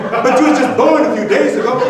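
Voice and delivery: astonished mama. Acted.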